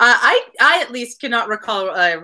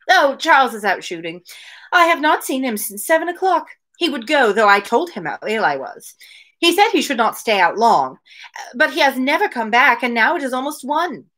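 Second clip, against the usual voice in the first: dialogue read aloud; 3 semitones higher than usual. Acted. Podcaster reading Mary's complaints to Anne, lightly voiced.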